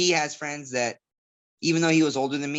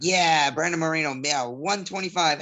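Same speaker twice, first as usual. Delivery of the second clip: higher, mock crowd cheer; imitated cheering crowd; 4 semitones higher than usual. Fighter imitating fans cheering a Mexican fighter at weigh-ins, mock cheering. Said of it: "big claps and cheers".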